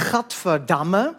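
"gadverdamme" with a throaty Dutch g, slow; Dutch guttural g. Shown as a demonstration. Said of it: "alle wichtigen Wörter fangen an mit".

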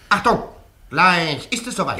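high, urgent officer's call; officer's warning. Acted. Officer warns the Indian in the foxhole, urgent call.

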